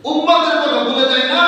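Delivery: rousing preacher's call. Shown as a demonstration. Preacher repeats the point to the congregation, rousing call. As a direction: call it out to the congregation, last word stretched. Third take, raised call.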